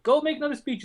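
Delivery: high-pitched voice of an adviser; mock adviser. Advisers telling their candidate what to do, mock high voice. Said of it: "They're like".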